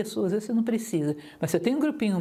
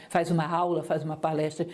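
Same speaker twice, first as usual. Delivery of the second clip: low, level lecture drone; demonstrating a samey lecturer's intonation; monotone; 5 semitones lower than usual. Shown as a demonstration. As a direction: recite it all on one low note. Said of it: "como é que a gente faz isso quando fala".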